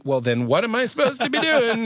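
high, exasperated mock wail; retold exasperation. Husband replaying his question to his wife, high-pitched exasperation.

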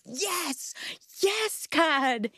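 high, thrilled cry of praise; joyful praise. Retold or imitated. Arms up, rejoicing.

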